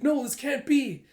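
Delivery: high, loud, disbelieving cry; acted distress. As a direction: wail like a panicked pet owner. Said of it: "running up screaming".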